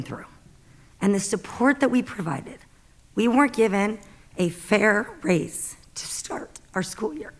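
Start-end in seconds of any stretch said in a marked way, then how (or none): 4.4-7.3 words choked off by tears; starting to cry. Real, not acted. Teacher at board meeting, breaking into a tearful whisper. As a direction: voice drops to a tearful whisper, slowing. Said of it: "And now I'm crying".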